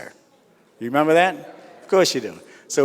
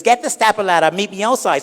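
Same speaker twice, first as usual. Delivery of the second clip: flamboyant guy; 6 semitones higher than usual. Acted.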